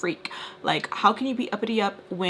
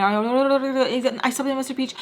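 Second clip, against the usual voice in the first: higher-pitched burst of babbled confession; blurting out; 4 semitones higher, 3 dB louder, slower than usual. Retold or imitated. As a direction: reenact words spilling out uncontrollably. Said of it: "like, vomiting".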